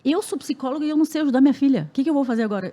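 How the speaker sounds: high, rushed re-enacted plea; retold desperation. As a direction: act out a mother at her wits' end. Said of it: "desesperada, porque eu falava".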